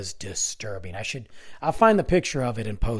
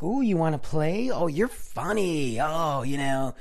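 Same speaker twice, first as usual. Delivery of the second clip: mock playful clown, higher and drawn out; stupid clown voice; 4 semitones higher than usual. Clown taunting an angry man outside the store, stupid voice. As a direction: imitate a teasing, silly clown. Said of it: "he's making this stupid voice".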